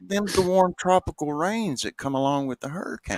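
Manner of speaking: high voice cracking with laughter; punchline half-laughed, half-shouted; laughing through the line. Acted. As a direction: try to deliver it but crack up.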